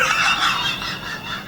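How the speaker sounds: shrieking laugh after his own insult; high shouted laugh. Real, not acted. Laughs after insulting old people.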